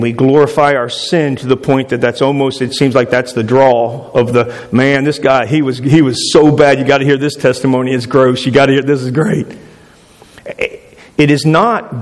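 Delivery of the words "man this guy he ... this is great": mock bragging testimony. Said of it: "what are sometimes called braggamonies".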